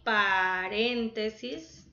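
paréntesis slowly stretched, RÉN marked; slow teacher's paréntesis with a strong RÉN; stress on RÉN. Shown as a demonstration. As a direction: sound out paréntesis, leaning on RÉN. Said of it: "tiene tilde en la E también".

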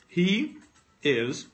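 chewing while talking; words round a bite of candy; mouth full. Real, not acted. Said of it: "I keep eating".

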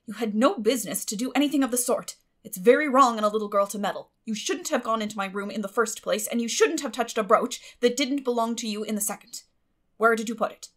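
stern scolding. A narrator's reading. Marilla rebuking Anne over the brooch, stern and loud. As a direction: scold the meddling girl.

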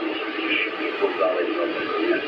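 ordinary talk, nothing marked

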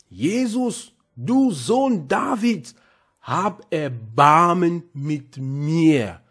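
slow, pleading cry to Jesus with a touch of mock shout; blind man crying out. Blind beggar calling to Jesus for mercy, slow pleading cry. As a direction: draw out each plea slowly, begging. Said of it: "schrie er laut".

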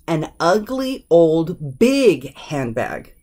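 slow list building to BIG; stress on BIG. Shown as a demonstration. Teacher showing another order, slow with emphasis on BIG. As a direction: lift ugly, then stretch BIG handbag. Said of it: "This handbag is big".

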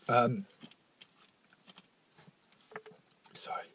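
halting and soft, long breaks to recover; real tearful struggle. Real, not acted. Podcaster trying to name their addiction, tearful. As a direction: try to get the words out through tears, apologising very quietly. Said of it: "crying on a podcast".

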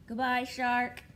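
ordinary talk, nothing marked

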